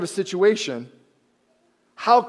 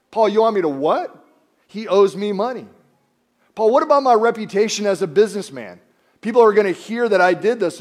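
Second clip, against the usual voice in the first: a touch louder, incredulous complaining; indignant protest; 3 semitones higher, 5 dB louder than usual. Retold or imitated. Philemon objecting to Paul's request, mildly indignant. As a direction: protest to Paul as if it's absurd.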